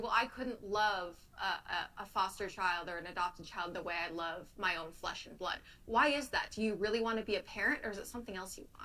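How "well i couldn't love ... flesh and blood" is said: usual speaking voice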